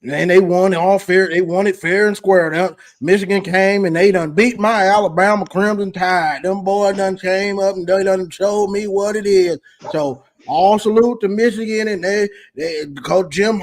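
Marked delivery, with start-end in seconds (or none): 0.0-9.6 put-on Alabama accent. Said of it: "don't do my Alabama at boy like that".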